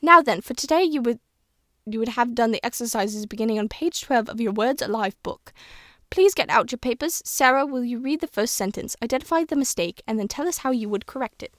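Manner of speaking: lightly voiced old British schoolteacher; old woman explaining, hint of British accent; a touch of elderly British teacher; Miss Granger. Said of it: "I'm trying to sound how Miss Granger would sound".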